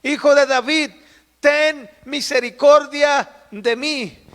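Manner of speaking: grito de súplica. Retold or imitated. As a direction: call out pleading, stretching the words slowly. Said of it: "comenzó a dar voces y a gritar". (imitando un grito de súplica, alto y alargado)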